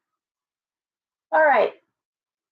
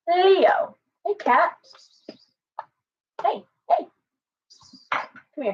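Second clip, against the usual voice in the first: calling the cat; 8 semitones higher, slower than usual. Real, not acted.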